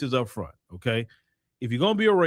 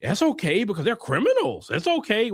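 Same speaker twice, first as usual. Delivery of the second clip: higher-pitched mock white person voice; put-on dismissive white voice; 4 semitones higher than usual. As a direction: imitate white people excusing it, pitched up. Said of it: "White people like".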